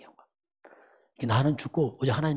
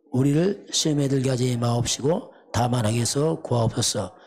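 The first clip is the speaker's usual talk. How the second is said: slow, solemn, louder liturgical reading; prayer recitation; 4 dB louder than usual. Acted. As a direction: intone the Lord's Prayer slowly and solemnly. Reads the Lord's Prayer aloud.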